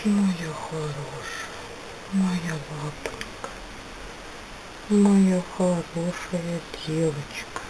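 slow, soft and tender; slowly calm a scared puppy; tender soothing. Real, not acted. Soothing frightened dog. (нежно и медленно)

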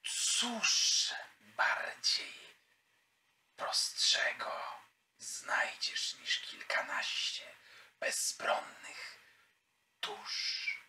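very slow, voiceless whisper with long pauses; whispering tempter. Acted. Unseen power demanding payment from the player's character, slow sinister whisper. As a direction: whisper it slowly, each phrase hanging like a dark bargain.

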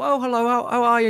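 high, put-on polite telephone hello; mum's phone voice. Mum answering the phone after shouting at you, high mock phone voice. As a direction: imitate a mum switching to her phone voice. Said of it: "used to have the phone voice".

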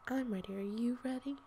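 light, breathy hint of SpongeBob, barely voiced; half-whispered nod to the SpongeBob line; SpongeBob quote. Quoting SpongeBob to the chat, lightly whispered. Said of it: "It sounds like SpongeBob".

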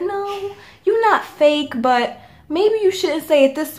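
slow, softened pretend-nice voice; subtle, gentle hint. Mock-gentle to a fake friend, slow and soft. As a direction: ease it in so it won't hurt. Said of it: "say it in a subtle way".

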